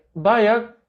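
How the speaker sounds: loud puzzled question. Retold or imitated. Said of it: "malakas yung boses ko rin".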